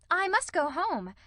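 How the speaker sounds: high, airy exclamation; overdone carelessness. A narrator's reading. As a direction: toss it off too carelessly. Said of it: "with a rather overdone carelessness".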